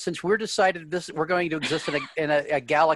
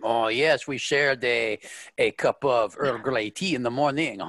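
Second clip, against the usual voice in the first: put-on lightly done French-English accent, a little lower; a faint French lilt, remembering fondly; captain recalling tea with Amanda in a faint French-English accent; Picard's French-English accent; 4 semitones lower than usual. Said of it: "Your accent's just kind of, whew".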